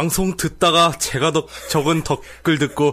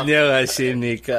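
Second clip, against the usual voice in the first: switching impression voices; 4 semitones lower than usual. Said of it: "그것도 뭔지 모르겠는데".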